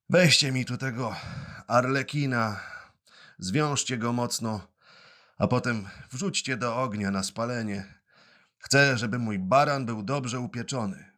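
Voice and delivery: a hint of a hoarse showman ordering the guards; hoarse command. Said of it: "odezwał się do nich ochrypłym głosem".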